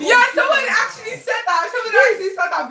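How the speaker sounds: indignant. Real, not acted. Indignant repeat.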